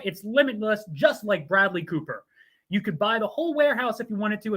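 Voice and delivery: brisk promo read. Acted. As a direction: pitch free shipping like a commercial. Continues the sponsor ad.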